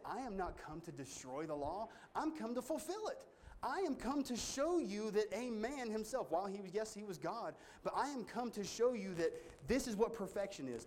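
high, ringing, exalted proclamation; proclaiming Jesus' words. Retold or imitated. Preacher voices Jesus to the congregation, high and ringing. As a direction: lift it up like a declaration from the pulpit. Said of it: "That's why he said".

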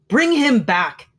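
high, slow desperate cry. A narrator's reading. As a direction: beg it out loud. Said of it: "cried the old woman".

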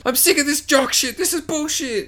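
hammed-up high girlie voice; mock fed-up girl. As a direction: whine it like an offended teen girl.

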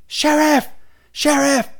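high, loud yell for the sheriff; top-of-the-lungs holler, mimicked; imitated scream. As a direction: holler it like calling for help. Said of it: "the top of his lungs, screaming".

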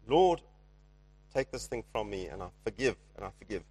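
forced out through clenched teeth; grudging, teeth clenched; gritted teeth. Retold or imitated. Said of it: "say it through gritted teeth".

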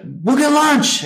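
sing-song it out like a fleeing man; imitated hotel manager.

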